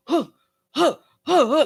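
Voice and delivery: short puffs of running breath; mock huffing while running; imitated panting. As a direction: pant as if darting down the street.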